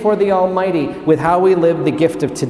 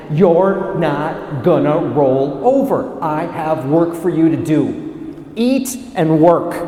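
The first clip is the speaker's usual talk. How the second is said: slow, deliberate command; insistent angel; 2 semitones lower than usual. Acted. Angel ordering Elijah up to work, firm and measured. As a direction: order him up word by word.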